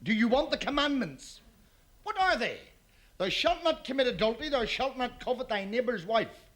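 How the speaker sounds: booming voice from heaven. Acted. God's voice from heaven, joke.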